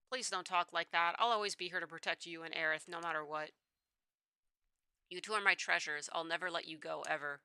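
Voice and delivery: lightly voiced tender father, reassuring; a hint of a protective dad, sinking low and soft; devoted father.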